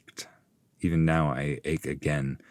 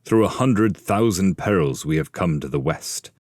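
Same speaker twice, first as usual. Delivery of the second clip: louder exhorting voice; rousing speech; 5 dB louder than usual. Acted. Ulysses urging his men onward, louder stirring speech. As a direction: urge the crew onward.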